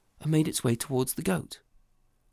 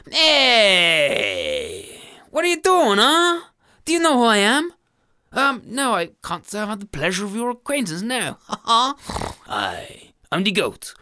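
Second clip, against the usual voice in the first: loud, booming goat boasting; a bullying billy goat from the hills; hammed-up villain goat; menacing goat; 4 semitones higher, 7 dB louder than usual. Goat threatens family.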